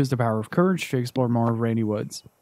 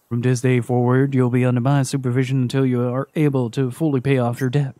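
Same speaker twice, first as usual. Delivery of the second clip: stern debt collector. Acted. Collector to Naomi, lightly voiced and stern. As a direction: lay down the law like a calm collector.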